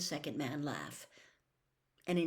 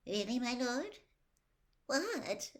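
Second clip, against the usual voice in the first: terrified; 7 semitones higher than usual. A narrator's reading. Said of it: "Wormtail sounded terrified again".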